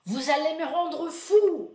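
loud, slow, fed-up scolding; exasperated supervisor. Retold or imitated. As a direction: lay into the class like a worn-out supervisor. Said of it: "Aí o Bouillon falou assim".

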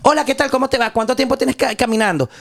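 hammed-up upbeat reporter greeting; mock reporter. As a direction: play a cheerful reporter greeting a migrant. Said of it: "¿tú puedes creer que le hacían así?".

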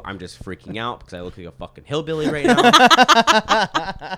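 loud, high, laughing lisped apology; lisping panic. Retold or imitated. Retelling the apology to nana, high lisping panic. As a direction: blurt it out high and loud through a lisp. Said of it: "I'm, like, lisping".

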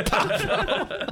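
loud, high gunshot noises with laughter; imitated gunshots. Retelling the shootout for laughs, imitated gunshots. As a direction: fire two vocal shots while cracking up.

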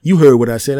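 menacing bully; bully insisting. Retold or imitated. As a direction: push the threat at him. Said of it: "he runs in front of me".

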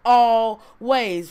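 slow, weighty reading of the verse; solemn scripture reading. Acted. Preacher to congregation, slow solemn verse reading. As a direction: lean into each word of scripture.

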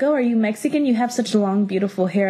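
lightly voiced coworker, politely curious; a stranger at work asks, mildly imitated; retold compliment. Coworker asks about her hair, lightly imitated friendly question. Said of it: "they're like".

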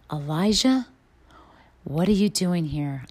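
whispered, hushed call of God; still small voice. Retold or imitated. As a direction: breathe it like a gentle whisper. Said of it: "The still small voice".

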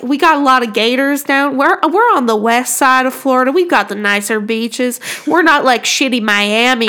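imitating a chatty Southern lady; Southern US accent. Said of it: "they talk like that".

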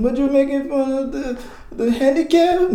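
high, loud mock accuser; accusing voice. Accuser confronting the denier, a high loud mock voice.

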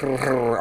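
imitated clicking animal rumble; platypus rumble. Host showing what sound Perry makes, imitated rumble. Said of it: "clicks and, like, rumbles".

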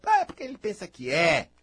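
loud imitation of a cross person; imitated angry person. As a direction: complain like someone put out. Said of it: "Quantas vezes a pessoa braba".

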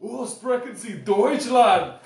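high, loud Scottish-sounding German; German in Scottish accent. Acted. Failed try at German on request, Scottish accent. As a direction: shout German with a Scottish lilt. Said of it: "in a Scottish accent".

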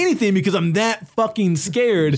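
high, mock frightened voice; acting out being frozen with fear; retold terror. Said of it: "so fucking scared that you can't".

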